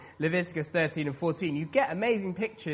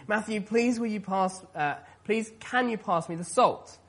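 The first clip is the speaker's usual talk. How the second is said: higher-pitched imitation of a mum's polite request; mum asking; 6 semitones higher than usual. Preacher as his mum asking for the salt, higher mum voice. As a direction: imitate mum asking her son at dinner. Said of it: "my mum would say".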